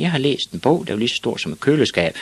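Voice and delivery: put-on high-pitched boy voice; lightly voiced child, starting high; little boy Ivan. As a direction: report it up high as a small kid. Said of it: "sagde Ivan".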